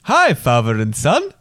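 attempted Belgian accent, drawn out. Child reading penguin friend Al's message to Dad, attempted Belgian accent. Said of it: "try and read it in his accent".

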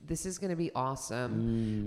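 lightly voiced eager American audience; upbeat, expecting the best; mock American optimism. American audience member, eager optimism. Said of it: "Americans go in with one attitude".

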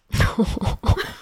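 a breathy, high laugh; high airy laugh. Real, not acted. Laughing at the dad booking a car service, high and airy. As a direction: laugh at the dad's practical fix.

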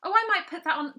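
high and loud mock delight. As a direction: squeal over the bra with fake glee. Mock delight at bra brand.

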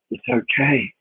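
slow, gentle reassurance; soothing a crying man, slow and gentle; said close in his ear. Retold or imitated. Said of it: "I said in his ear".

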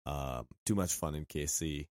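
raspy, hoarse sore-throat voice. Real, not acted. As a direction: talk through a hoarse throat. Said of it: "my voice is gonna be extra sultry this week 'cause I have a bit of a throat infection".

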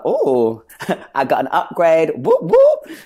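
high, loud gleeful celebration; buzzing. Retold or imitated. Young performer told of a bigger part, buzzing. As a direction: celebrate with playful high whoops. Obviously I was buzzing about that.

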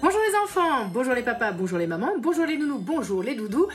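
put-on sing-song greeting to the kids; bright chirpy hello to everyone; bright squeaky sing-song welcome. Cheerful podcast greeting to kids.

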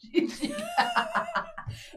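high-pitched mock laugh; imitated giggly squeal. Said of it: "Katie does this, she goes".

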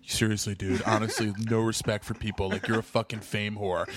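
a hint of a disapproving hipster tutting; mock earnest scold. Brian scolding again.

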